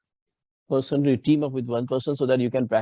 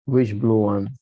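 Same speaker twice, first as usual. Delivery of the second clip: "Which" stressed in "Which blue one?"; 2 semitones lower than usual. Shown as a demonstration. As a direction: punch "Which" as you ask. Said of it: "you have to mimic this".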